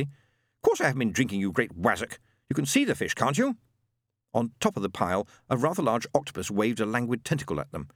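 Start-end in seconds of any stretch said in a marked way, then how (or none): 0.0-3.6 indignant retort. Acted.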